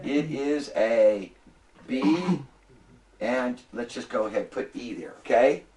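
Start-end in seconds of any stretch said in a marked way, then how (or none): 0.0-2.4 prompting class answer. Shown as a demonstration. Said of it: "Everybody should say".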